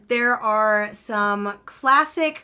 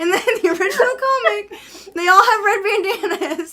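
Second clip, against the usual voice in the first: emphatic; 10 semitones higher, 8 dB louder than usual. Real, not acted. Emphatic correction, raised voice.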